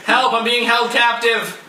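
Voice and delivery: slow, playful damsel plea; fluttering cries for help. Pretend. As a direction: beg for rescue, hammed up. Mock plea for rescue.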